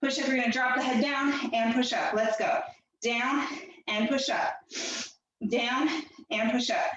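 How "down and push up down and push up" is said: blocked nose, nasal and congested; talking through a stuffy nose. Real, not acted. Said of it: "Sorry about my nose. I sound gross today".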